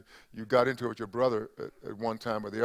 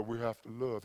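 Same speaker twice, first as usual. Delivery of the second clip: Georgia drawl; 5 dB quieter than usual. Retold or imitated. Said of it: "Georgia drawl or Alabama drawl".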